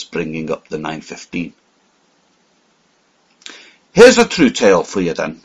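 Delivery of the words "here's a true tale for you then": louder, eager offer of a story; bursting to tell a tale; excited cry. Acted. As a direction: call it out with excitement. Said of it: "I cried".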